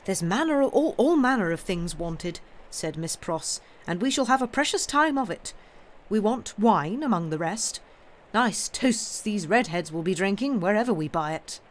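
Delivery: a hint of a bustling, fussy governess; Miss Pross voice. Miss Pross bustling off to market, lightly voiced busy nurse.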